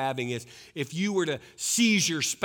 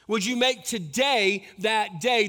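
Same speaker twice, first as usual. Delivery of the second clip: louder, slower plea rising at the end; rising appeal; 6 semitones higher, 7 dB louder than usual. Shown as a demonstration. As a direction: lift "make" and plead it out slowly.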